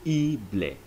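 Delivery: ible said slowly as EE-bleh; Spanish ending. Shown as a demonstration. Teacher slowly shows the Spanish ible ending. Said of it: "are pronounced".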